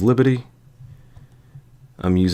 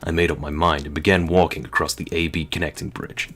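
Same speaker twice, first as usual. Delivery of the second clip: lightly voiced game-hero narrator; hint of a soldier recounting his mission; Solid Snake; 2 semitones lower than usual. Player reads Snake's first-person account, lightly voiced Solid Snake. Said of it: "pretend Solid Snake voice".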